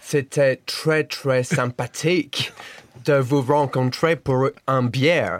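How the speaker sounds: French words with English vowels and r; French with English accent. Shown as a demonstration. Guest plays host describing their festival meeting, English-accented French. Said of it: "but in an English accent".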